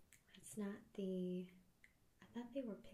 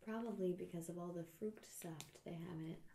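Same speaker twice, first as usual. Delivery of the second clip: whispering; faster than usual. Real, not acted. ASMR tasting whisper.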